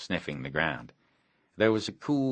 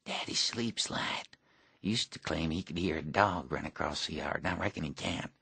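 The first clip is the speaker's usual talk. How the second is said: put-on boy whispering about his light-sleeping father; 6 dB quieter than usual. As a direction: whisper the warning near the house. Near the sleeping father's house.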